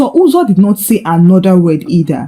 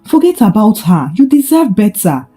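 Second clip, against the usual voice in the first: soft manipulative. Acted. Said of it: "with a soft but manipulative voice".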